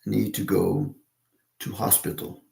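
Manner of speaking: lightly attempted British accent, no "the"; British phrasing. Shown as a demonstration. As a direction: demonstrate the British way of saying it. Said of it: "they say".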